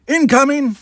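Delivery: sudden high shouted alarm; warning shout. A narrator's reading. Corrin shouting a warning to the bridge crew, loud alarm. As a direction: yell it out as the hit lands. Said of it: "Corrin's warning shout".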